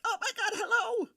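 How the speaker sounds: put-on high silly baby-talk hello; greeting a baby with a silly face, in high baby talk. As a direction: coo it up high like waving at a baby. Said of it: "make stupid faces like".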